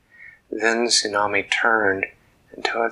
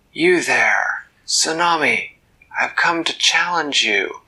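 bold challenge; 6 semitones higher, 4 dB louder than usual. Acted. Dak challenges the kraken.

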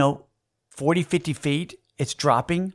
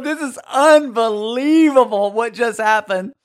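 amazed exclamation; 7 semitones higher, 4 dB louder than usual. Retold or imitated. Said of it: "And I'm just going".

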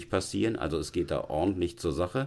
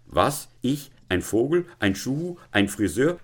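offended questions, pitched up, each rising; angry incredulous cry; 6 semitones higher, 4 dB louder than usual. Acted. Deputy headmaster throwing the student's insults back, angrily incredulous. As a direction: echo each insult in outraged disbelief. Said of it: "schrie der Konrektor voller Zorn".

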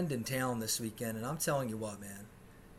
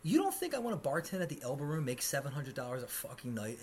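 annoyed retort. Real, not acted. Snapping back at tourists.

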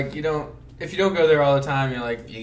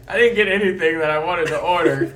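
higher, louder imitation of an upset friend; mock mad complaint; 5 semitones higher, 5 dB louder than usual. Friend complaining about his wrong order, mock mad. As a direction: protest loudly in a put-on upset voice. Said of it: "Why are you mad?".

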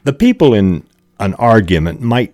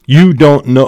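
mild angry retort; 8 semitones higher, 6 dB louder than usual. Acted. Demonstrating Mike's angry line.

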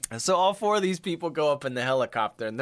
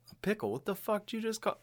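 offended reply; 8 semitones higher, 7 dB quieter than usual. Retold or imitated. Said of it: "people would be like".

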